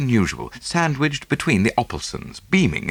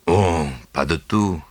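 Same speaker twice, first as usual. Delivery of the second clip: tranquil; 5 semitones lower than usual. A narrator's reading. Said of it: "replied Poirot tranquilly".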